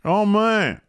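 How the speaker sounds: high, loud thrilled oh man; excited oh man. Real, not acted. To co-host about Jungle Boy's win, thrilled. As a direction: gush over the win. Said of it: "He was so excited".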